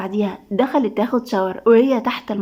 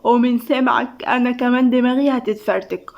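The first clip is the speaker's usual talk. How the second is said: mildly weary, commiserating; a touch of morning exhaustion; exhausted. Acted. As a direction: answer as if your head hurts too. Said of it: "ندى بنفس الإرهاق".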